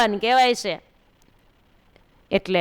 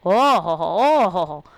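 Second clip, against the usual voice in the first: drawn-out rapture; 3 semitones lower, slower than usual. Retold or imitated. Man cries out in rapture.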